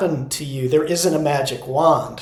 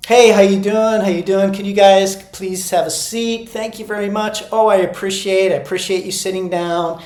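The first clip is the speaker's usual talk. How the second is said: lightly higher, friendly and personal; friendly greeting; 3 semitones higher than usual. Shown as a demonstration. Teacher walking the room greeting students, friendly. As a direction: greet each kid like a pal. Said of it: "so a friendly way".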